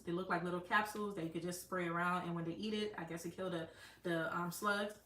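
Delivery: chewing gum while talking; mouth full. Real, not acted. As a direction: talk around a wad of gum. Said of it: "I have gum in my mouth".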